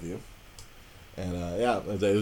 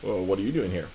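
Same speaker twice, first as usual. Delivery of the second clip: teasing coworker; 2 semitones higher, 8 dB louder, faster than usual. Retold or imitated. Coworker mocking him, voiced.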